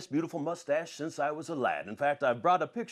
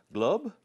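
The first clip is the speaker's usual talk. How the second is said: higher glub with a rising tune; first glug, lifted up at the end; playful rising glub sound; imitated pouring glub; 4 semitones higher than usual. Shown as a demonstration. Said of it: "we're gonna put in two glubs".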